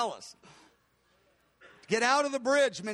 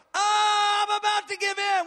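weak giving in; 8 semitones higher, 4 dB louder than usual. Pretend. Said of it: "We don't look at sin and go".

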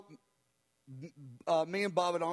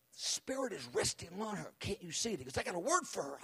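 retold whisper; 5 dB quieter than usual. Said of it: "Bob whispers over me".

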